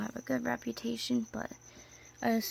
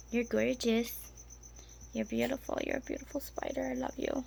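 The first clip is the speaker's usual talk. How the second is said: tender cooing; 4 semitones higher than usual. Real, not acted. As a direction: coo it like to a pet. Cooing at her spider.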